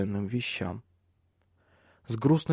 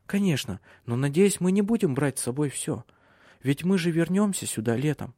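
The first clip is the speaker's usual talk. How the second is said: slightly higher female character voice; wife talking things over with her husband; lightly voiced Silje; 4 semitones higher than usual. (слегка повышенный женский голос героини)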